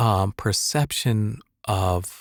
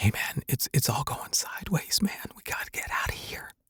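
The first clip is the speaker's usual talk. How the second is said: hushed whisper, very close to the mic; 6 semitones higher, 7 dB quieter than usual. Demonstrating close-up microphone technique with an example line: close-mic whisper. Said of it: "That sounds like I'm right there whispering in your ear".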